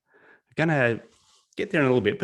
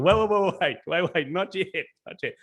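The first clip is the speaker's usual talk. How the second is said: higher-pitched rush of "wait"; hurried stop; 9 semitones higher than usual. Real, not acted. Speaker to chat guessing too early, higher and urgent. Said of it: "I haven't started yet".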